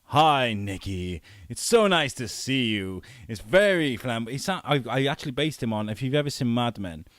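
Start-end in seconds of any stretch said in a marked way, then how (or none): 0.0-4.3 flamboyant Jack voice. Acted. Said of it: "it was like".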